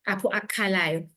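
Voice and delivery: ordinary talk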